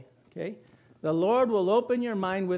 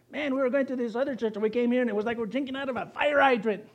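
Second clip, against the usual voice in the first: quick, higher-pitched newcomer's rave; retold amazement; 4 semitones higher, faster than usual. Preacher retells what newcomers told him, retold amazement. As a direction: imitate an excited visitor, rushing along.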